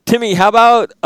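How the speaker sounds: high, loud laughing restart. Real, not acted. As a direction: laugh it off and pivot. Laughing redirect to guest.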